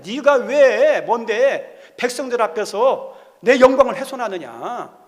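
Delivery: stern divine rebuke. Acted. God rebuking Moses, voiced.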